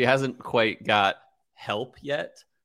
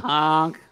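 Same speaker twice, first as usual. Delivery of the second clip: higher goose call; mock goose honk; 6 semitones higher, 4 dB louder than usual. Podcaster joking about Canadian geese, imitated honk.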